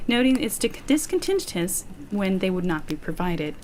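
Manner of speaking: measured, articulate report reading; steady narrator delivery with emphasis on key words; document narration. A narrator's reading. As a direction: read it out like a case file. Reads a written report aloud.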